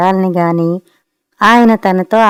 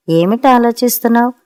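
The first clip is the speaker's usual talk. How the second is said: a touch of irritation, pitched a little higher; mildly annoyed, lightly voiced question; irritated; 4 semitones higher than usual. Husband presses his wife mid-quarrel, mildly irritated. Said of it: "చెప్పలేనంత చిరాకు ఆ గొంతులో".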